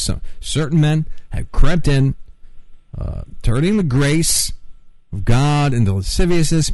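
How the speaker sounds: fervent preacher cadence; preaching. Real, not acted. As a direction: preach it with conviction. Preaching on a call-in show.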